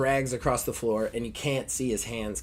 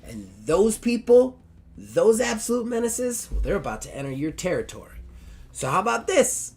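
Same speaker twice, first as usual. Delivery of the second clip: put-on high, gushing valley girl voice, climbing higher at the end; valley girl Barbie; 7 semitones higher than usual. Barbie gushing to the two dogs in a high valley girl voice. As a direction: squeal it like an excited valley girl.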